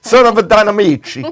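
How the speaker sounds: put-on Sicilian relative; Sicilian accent. Host voices a relative about his family, Sicilian accent. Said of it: "the only good accent I can do".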